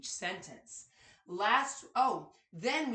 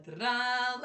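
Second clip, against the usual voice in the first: exaggerated word endings; 3 semitones higher, 5 dB louder than usual. Suspense chant before program name.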